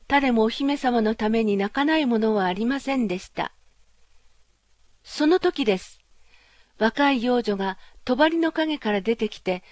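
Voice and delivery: usual speaking voice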